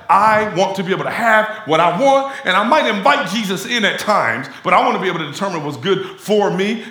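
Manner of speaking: hammed-up entitled tone; mock self-willed believer. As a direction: play the one who wants it all his way. Voicing the self-determining believer.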